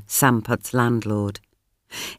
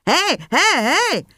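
alarmed cry; 13 semitones higher, slower than usual. A narrator's reading. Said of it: "the policeman cried".

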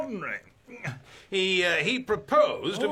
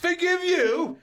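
indignant outburst; 11 semitones higher, 4 dB louder, slower than usual. Acted. Governor mocking pleading merchants.

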